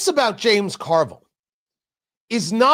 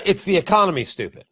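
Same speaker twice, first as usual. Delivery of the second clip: quoting slogan; faster than usual. Retold or imitated. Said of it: "I'm gonna say it was Bill Clinton".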